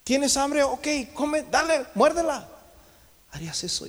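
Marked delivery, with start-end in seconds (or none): 0.0-2.5 high-pitched, offhand mock urging; mock parent offering. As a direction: play a parent casually telling a child to eat. Acts parent offering child a stone.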